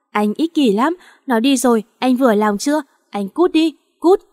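grieving mother lashing out at her husband; tearful angry outburst. Acted. Nhi mắng Duy sau khi mất con. (người mẹ mất con vừa khóc vừa mắng chồng, cao dần đến tiếng "cút")

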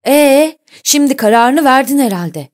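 loud, high-pitched angry challenge; captain's heated outburst; furious. A narrator's reading. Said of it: "Kaptan Larsen hiddetle".

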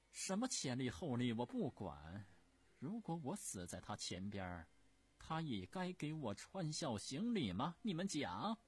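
high, loud furious demand; furious empress. Acted. Empress dowager shouting at the officials, high and furious. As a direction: refuse to hear a word of it.

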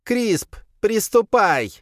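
high, loud barked order; commanding creature. A narrator's reading. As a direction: snap the command. Mother orders Krisp.

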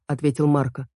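ordinary delivery

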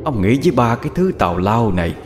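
gloomy ghost voice. Acted. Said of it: "cất tiếng nói âm u".

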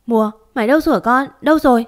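frantic call. Acted. Father panicking on the phone.

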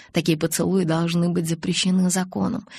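ordinary delivery

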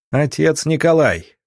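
restrained, high-pitched cry; hoarse shout. A narrator's reading. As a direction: call out for someone lost in the fire. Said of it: "хрипло крикнул доктор".

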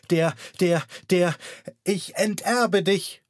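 put-on high, raging old aunt, running out of breath; gasping furious aunt. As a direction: rage at him, then gasp the last words. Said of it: "japste sie noch hervor". (wütend keuchende Tante, hoch)

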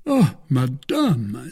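a slow, lordly drawn-out protest; offended pride, looking down on her; haughtily. Acted.

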